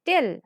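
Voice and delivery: "Tel" pressed out as the stressed syllable. Shown as a demonstration. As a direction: put pressure on "Tel", said on its own. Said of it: "So we are stressing".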